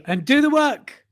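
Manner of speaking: loud, slow British command, pitched high; drawn-out British bellow; British accent, MC Anger. Acted. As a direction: order it in angry British. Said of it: "do in your famous British accent".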